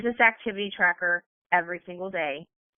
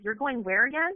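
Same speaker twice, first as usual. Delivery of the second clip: incredulous family; 5 semitones higher than usual. Retold or imitated. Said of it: "They're like".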